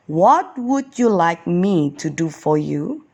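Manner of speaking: a gentle, lightly voiced kind question; kindly asked. Jesus kindly asks the blind beggar, gently. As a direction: ask as if ready to give anything. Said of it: "said Jesus kindly".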